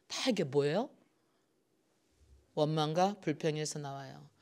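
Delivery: ordinary talk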